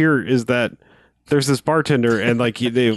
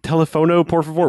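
mock Spanish; 6 semitones higher than usual. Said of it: "everything is Spanish".

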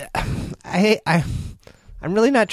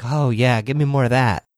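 mock eager reply; 5 semitones lower than usual. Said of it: "supposed to just smile and be like".

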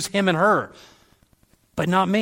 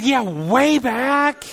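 laughing; 8 semitones higher, 4 dB louder, much slower than usual. Retold or imitated. Wry joke to the kid.

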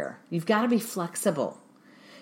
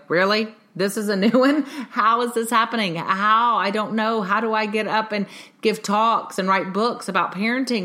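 higher, louder self-mocking exasperation; exasperated disbelief; 4 semitones higher, 5 dB louder than usual. Parent asking herself every week of parenting, exasperated and incredulous. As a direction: act out an overwhelmed parent's incredulous questions.

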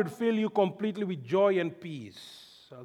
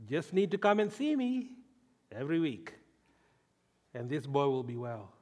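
calm reassuring doctor; 7 semitones lower, 7 dB quieter than usual. Retold or imitated. Doctor's reassurance voiced again.

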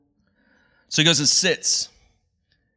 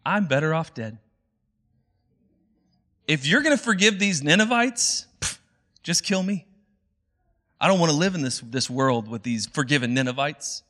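higher, melodramatic plea to die; dramatic Jonah; 3 semitones higher than usual. Retold or imitated. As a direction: beg God like a sulking drama queen. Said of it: "so he says".

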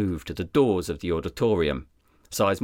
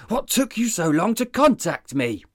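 much higher, roaring disbelief; roared; 11 semitones higher than usual. Acted. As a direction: roar it at the deputy. Detective still raging.

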